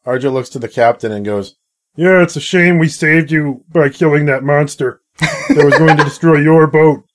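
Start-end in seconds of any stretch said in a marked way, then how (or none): 1.9-7.0 sarcastic. Acted. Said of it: "if you're going for sarcasm".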